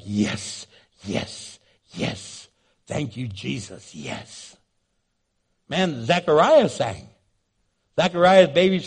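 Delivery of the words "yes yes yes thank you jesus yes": fading from soft to a breathy hush; hushed praise. Retold or imitated. Shepherds quietly thanking Jesus, fading out. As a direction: let the thanks die away to nothing.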